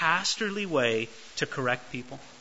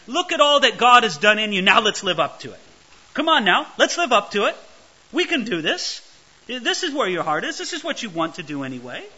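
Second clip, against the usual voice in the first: higher, louder, upbeat pep talk; rally them warmly like a coach; encouraging; 3 semitones higher, 4 dB louder than usual. Retold or imitated. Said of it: "in this very encouraging way of saying".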